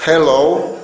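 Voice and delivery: "hello" with a soft, aspirated h; "hello" said as a model of the soft h; soft English h. Shown as a demonstration. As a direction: show the light h that starts "hello". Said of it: "Esa ja tenemos que pronunciarla de esa manera".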